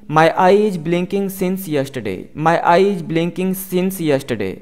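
very slow, careful English for learners; slow model sentence. Shown as a demonstration. Teacher reading the example slowly to students. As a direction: spell each word out slowly for the class. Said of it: "teacher model sentence".

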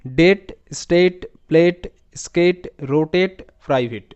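slow, separate words with a firm beat; model word-list reading. Shown as a demonstration. Teacher shows learners how to read the pattern words, measured model reading. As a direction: read each word out distinctly, pausing between them. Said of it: "শব্দগুলোকে তোমরা এভাবে পড়বে".

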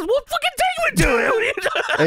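panicked Christian impression. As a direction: squeal it like a panicking wrestler. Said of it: "And Chris says".

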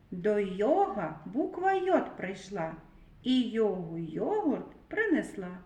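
tongue twister recited to the class. Shown as a demonstration. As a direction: recite the rhyme for children to repeat. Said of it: "Повторіть скоромовку".

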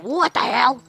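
play-acted indignant surprise; mock startled ghost. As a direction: imitate a startled character's outburst. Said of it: "He's like".

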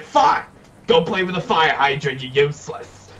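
retold angry outburst. Cat owner retelling her retort to firefighter, angry outburst. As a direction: fling it back in exasperation.

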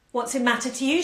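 mock her with a light old croak. Old woman mocking the pregnant girl, lightly croaking. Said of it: "she croaked".

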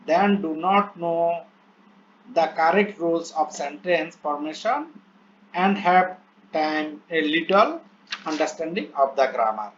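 very slow, word-by-word English reading; slow dictation reading. Shown as a demonstration. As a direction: read each English word out slowly as if dictating. Reads English plan aloud slowly. (ধীরে ধীরে শ্রুতলিপির মতো পড়া)

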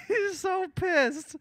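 very high, slow, drawn-out cooing. Real, not acted. Streamer cooing about his mad cat, very high and slow. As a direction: stretch it out sweetly like about a pouty pet.

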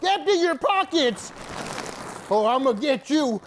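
high mock yelling; yelling across the room. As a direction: call after the cameraman. Chasing cameraman for Takis.

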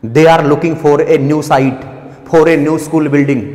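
very slow, word by word; slow, careful sentence reading; slow dictation. Shown as a demonstration. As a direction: read it out like dictation for the class. Reads exam sentence aloud slowly.

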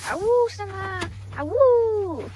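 playful high wolf howl; howling like a wolf pup. Pretend. Howling at the dog.

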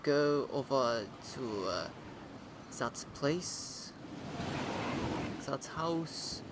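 put-on a lightly done Australian accent for the new guy character; casual Australian accent chatting to viewers. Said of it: "I don't know why I've been given, uh, an Australian accent".

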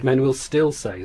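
"still" emphasized, at a slow pace; slow down and lean on "still"; stress on still. Shown as a demonstration. Phonetician repeating presenter's reading, emphasis on "still". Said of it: "the emphasis on still".

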